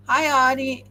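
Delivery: loud happy hi to a friend; bright greeting. Real, not acted. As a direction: call out a cheerful hello. Greeting a viewer by name.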